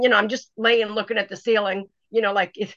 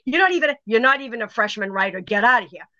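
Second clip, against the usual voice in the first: retold scolding; 5 semitones higher than usual. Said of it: "And she goes".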